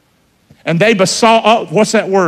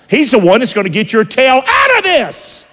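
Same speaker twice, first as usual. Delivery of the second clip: raised-pitch, rousing assurance; emphatic preaching; 7 semitones higher than usual. Real, not acted. Preacher answering those who blame God, emphatic high preaching. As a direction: drive it home, climbing high at the end.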